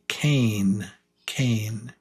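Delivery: cane with a long "ay". Shown as a demonstration. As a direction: model cane. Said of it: "K A".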